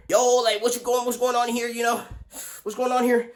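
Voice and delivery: high, loud what's going on; loud demand. Retold or imitated. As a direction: demand an answer. Demanding what happened.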